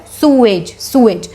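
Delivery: "सूएज" repeated as SOO-ij; teacher drills sewage for students; pronunciation drill. Shown as a demonstration. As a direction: repeat "सूएज" slowly and clearly. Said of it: "इसको सीवेज मत बोलना".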